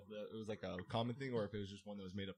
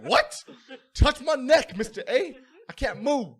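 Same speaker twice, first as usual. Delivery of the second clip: higher, loud pleading whine; loud whiny plea; 16 dB louder, slower than usual. Retold or imitated. Student refusing to move tells teacher, loud whining plea. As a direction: beg the teacher like a stuck kid. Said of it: "the teacher's like".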